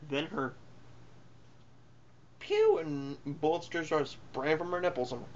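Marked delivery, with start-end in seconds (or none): 2.4-2.8 quick high "pew" shot noise; imitated gunshot. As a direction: mimic a toy-like gunshot. Imitates gunfire from the film.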